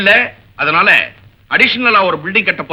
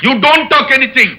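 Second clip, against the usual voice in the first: angry order; 5 semitones higher, much slower than usual. Acted. Principal orders student out.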